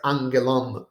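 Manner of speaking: "Angelon" with two accents, mu swallowed after it; accent both ends of "Angelon", trailing an unstressed mu; enclitic joining. Shown as a demonstration. Teacher matching Greek to English example, mu unaccented. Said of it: "The same thing is here".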